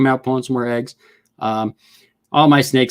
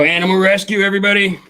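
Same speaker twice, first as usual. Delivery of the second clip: excited announcement; 8 semitones higher, 4 dB louder, faster than usual. Real, not acted. Announcing to viewers.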